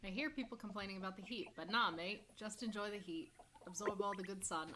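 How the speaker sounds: put-on a weak, hammy Australian accent; lazy Aussie voice, mate; bad Australian accent. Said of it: "we're gonna do my really bad Australian accent".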